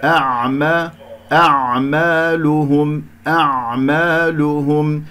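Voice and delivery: "أعمالهم" chanted slowly, hamza and ع kept separate; each letter distinct. Shown as a demonstration. Teacher drilling neighbouring letters, slow careful recitation of "أعمالهم". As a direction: give hamza and ع their full due in "أعمالهم". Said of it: "أعطي كل حرف حقه".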